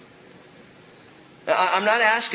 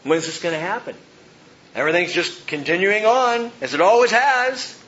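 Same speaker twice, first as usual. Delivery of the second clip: acted skeptical taunt, rising at the end; mock complaint that climbs in pitch; mocking scoffers; 2 semitones higher than usual. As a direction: play a scoffer who doubts it will come. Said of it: "Mockers have come with their mocking".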